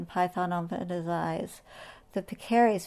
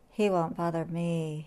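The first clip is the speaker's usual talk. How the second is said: hissing; 3 semitones lower, 3 dB quieter than usual. Acted. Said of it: "he hissed".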